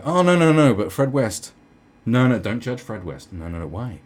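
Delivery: hammed-up urgent objection; mock protesting. Imagined defender pleading for Fred West, mock protesting.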